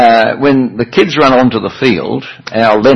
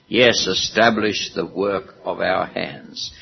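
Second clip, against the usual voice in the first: psalm reading; 2 semitones higher than usual. Acted. Preacher leads congregation reading the psalm, solemn and measured. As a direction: read the prayer aloud together, unhurried.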